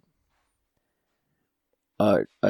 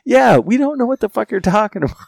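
much higher, louder teasing John; mock agreement; 12 semitones higher, 7 dB louder than usual. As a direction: pile on Frank laughing at him. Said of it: "And John's like".

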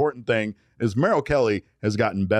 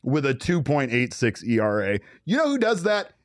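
southern attorney. Pretend. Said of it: "southern attorney, sir".

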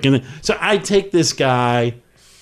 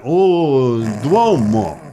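Italian pronunciation of Duomo; 2 semitones lower, much slower than usual. Retold or imitated. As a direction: echo Duomo like a local Italian. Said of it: "And I went".

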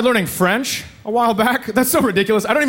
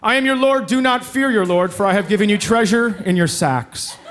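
solemn scripture reading. Retold or imitated. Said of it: "Mine was Genesis".

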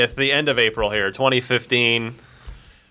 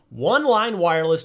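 upbeat announcer ad read; bright, breezy ad voice; 5 semitones higher than usual. Acted. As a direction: sell it like a radio spot.

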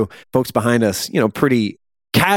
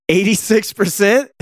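disbelief; 8 semitones higher than usual. Real, not acted. Disbelieving at the score.

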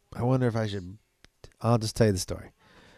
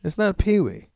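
much higher, insistent hurt correction; indignant correction; 7 semitones higher than usual. Retold or imitated. Pedroia correcting Papi about his own name, high and insistent. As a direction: set the record straight, a little wounded. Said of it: "And he goes".

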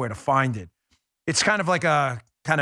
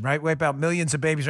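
usual speaking voice

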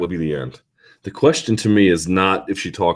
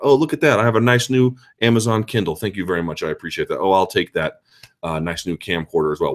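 mock gleeful looter. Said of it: "I get to rifle through your things".

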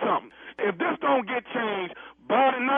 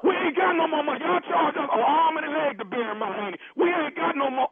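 angry shouting; 4 semitones higher than usual. Acted. Heated prank call shouting.

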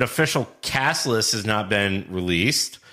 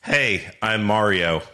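plain American Mario; slower than usual. Retold or imitated. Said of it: "not gonna have an Italian accent".

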